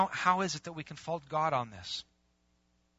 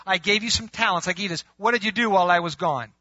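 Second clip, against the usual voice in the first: questioning master; 3 semitones higher, 7 dB louder than usual. Acted. Master questioning servant, acted.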